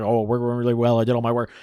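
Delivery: low, run-together mumble; fast mumbling. Retold or imitated. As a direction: imitate someone mumbling through an answer. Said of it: "mumbling and talking really fast".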